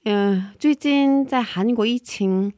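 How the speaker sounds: muffled through a mask; masked speech in a hot studio; through a face mask. Real, not acted. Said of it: "戴着口罩 录音".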